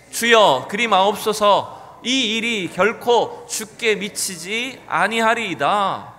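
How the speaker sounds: 천천히 힘주어 외치는 확신에 찬 항변; 스승을 막아서는 제자처럼 단호하게, 느리게; 담대한 선포. Acted. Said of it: "베드로는 굉장히 담대하게 선포합니다". (예수를 붙들고 항변하는 베드로, 느리고 힘찬 외침)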